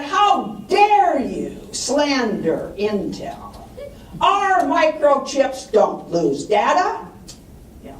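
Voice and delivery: slow, indignant rebuke as the angry engineer; a slow, half-hammed fuming complaint; retold anger. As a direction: play the offended engineer, dragging out the outrage. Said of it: "and he was pissed".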